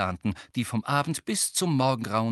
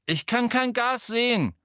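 put-on sulky teen mumble; 13 semitones higher, 7 dB louder than usual. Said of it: "Eine mürrische Stimme sagte".

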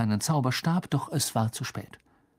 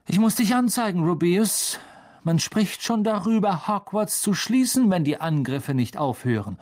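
higher, stern schoolboy voice; cold accusing voice; 6 semitones higher than usual. A narrator's reading. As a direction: press him hard, coldly. Riddle accuses Hagrid.

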